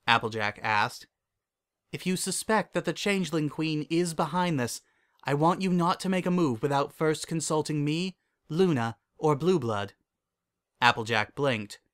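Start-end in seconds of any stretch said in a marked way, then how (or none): 1.9-9.9 higher-pitched royal instruction; composed mentor laying down a condition; Celestia, earnest princess. Acted. Voices Celestia in dialogue.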